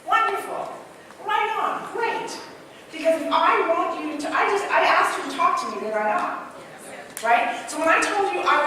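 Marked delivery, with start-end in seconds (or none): 0.1-2.4 high, bright bursts of praise for the audience; upbeat praise. Shown as a demonstration. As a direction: cheer each answer like a delighted host. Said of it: "what do I say when you respond".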